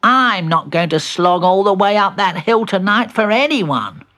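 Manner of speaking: grumbling refusal. Acted. Benji refusing to slog up the hill, loud protest.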